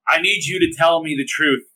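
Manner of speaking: high, slow melodrama; dramatic entrance. Acted. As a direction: ham it up like a soap star. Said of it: "be dramatic".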